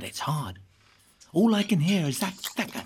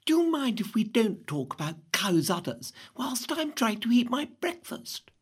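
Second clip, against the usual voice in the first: snotty; 3 semitones higher, 3 dB quieter than usual. Acted. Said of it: "Emma, all snotty, says".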